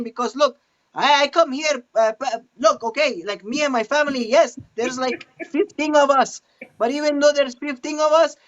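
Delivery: very high-pitched Latino accent; comic, rambling Latino voice up high; Latino character. Shown as a demonstration. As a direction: explain it insistently in a squeaky-high Spanish accent. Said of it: "like, Latino, Latin kinda versions".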